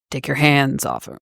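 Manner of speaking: low gravel vigilante growl; deep gravelly voice. Retold or imitated. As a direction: growl it like a brooding hero. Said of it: "deep, gravelly voice".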